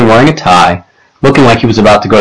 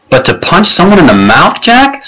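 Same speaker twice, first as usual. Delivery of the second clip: mom's high-pitched, incredulous raised voice; 9 semitones higher than usual. A narrator's reading. Mom confronting her son over the punch, raised voice. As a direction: pitch climbing into a shocked question, no real shouting. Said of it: "raising her voice".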